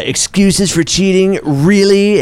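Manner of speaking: high, slow mocking girlfriend voice; man doing a woman's voice. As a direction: drag it out like a doubtful girlfriend. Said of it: "really almost offensive impression of your girlfriend".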